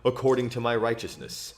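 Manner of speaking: scripture reading. Acted. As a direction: read it like a psalm at church. Reads a psalm aloud.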